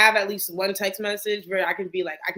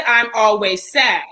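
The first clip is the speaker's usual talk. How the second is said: louder, slow, pressing I'm always sad; retold insistent; 9 dB louder, slower than usual. Daughter insists to mom she is sad, louder. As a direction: hammer the words home to mom. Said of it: "I said".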